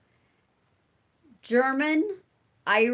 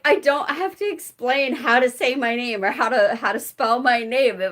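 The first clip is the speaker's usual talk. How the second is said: excited; 4 dB louder than usual. Retold or imitated. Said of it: "I was so excited".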